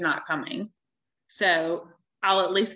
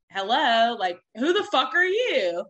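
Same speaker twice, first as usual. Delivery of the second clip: higher, slower indignant challenge; retold confronting the other girl; confrontational; 5 semitones higher, 4 dB louder, slower than usual. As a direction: demand who she is, pitched up.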